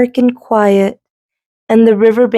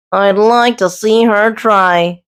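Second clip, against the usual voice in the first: groaned; slower than usual. Acted. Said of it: "groaned Goose".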